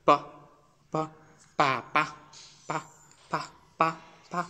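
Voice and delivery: "পা" with a light unvoiced b; unvoiced Chinese b. Shown as a demonstration. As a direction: drill short "পা" syllables, no voicing on the consonant. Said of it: "চাইনিজের ক্ষেত্রে এই শব্দগুলো হচ্ছে আনভয়েস".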